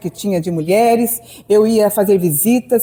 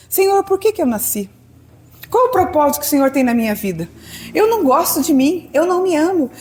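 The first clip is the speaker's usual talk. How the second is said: much higher, crying out "por que que eu nasci"; anguished prayer; 5 semitones higher than usual. Retold or imitated. Woman crying out to God that she doesn't love herself, high and pleading. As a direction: lift the voice up in a pleading lament. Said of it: "Eu e ele".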